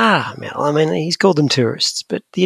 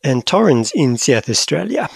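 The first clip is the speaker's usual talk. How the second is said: light South African accent. Shown as a demonstration. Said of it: "saying South Australia with a South African accent".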